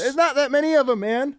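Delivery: high put-on goofy voice; silly high voice. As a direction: squeak it out in a silly voice.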